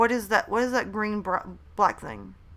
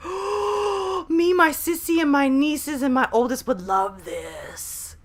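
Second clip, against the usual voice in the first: retold excitement; 6 semitones higher, slower than usual. Retold excited reaction to convention.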